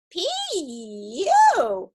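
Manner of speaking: high, loud squeal of disgust; squeaking bear cub. A narrator's reading. Bear cub smelling the intruder, disgusted squeak. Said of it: "squeaked the bear cub".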